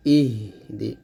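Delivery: "ইহ দি" with an easy breathed h from the throat. Shown as a demonstration. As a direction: let the h of "ইহ" flow without pressure. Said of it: "গলার শুরু থেকে".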